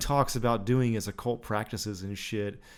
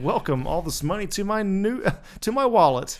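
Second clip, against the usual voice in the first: laughing parody; 7 semitones higher, 3 dB louder than usual. Pretend. Mock parody of quote.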